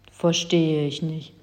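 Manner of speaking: slow, grumbled reply; grumbling. Acted. Confused giant grumbles that he does not understand. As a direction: grumble it out slowly. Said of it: "brummte der Riese".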